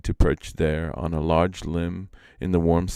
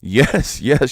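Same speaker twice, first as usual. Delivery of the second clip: higher, a bit louder, eager yes; delighted shout; 8 semitones higher, 6 dB louder than usual. A narrator's reading. Iktomi eagerly agreeing to the sparrow, mild delighted shout. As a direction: blurt it out, thrilled. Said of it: "shouted Iktomi, delighted".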